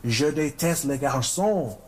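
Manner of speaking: lightly cartoonish French accent; French accent, a touch theatrical; Pepe Le Pew. Shown as a demonstration. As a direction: put on a mild French accent, slowing down. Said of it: "watching a lot of Pepe Le Pew".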